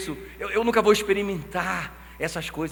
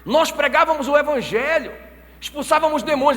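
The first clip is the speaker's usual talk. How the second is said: raised, louder indignant protest; pleading protest; 8 semitones higher, 5 dB louder than usual. Acted. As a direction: plead your case to the Lord, loud. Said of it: "os caras falam assim". (protesto indignado em voz alta)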